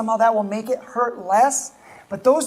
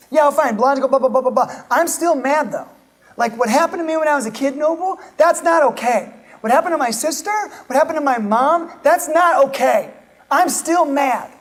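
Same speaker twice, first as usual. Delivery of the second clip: higher, louder, indignant complaint; voiced frustrated protest; 4 semitones higher, 4 dB louder than usual. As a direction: play the hurt listener who won't let it go. Voicing an angry listener's protest.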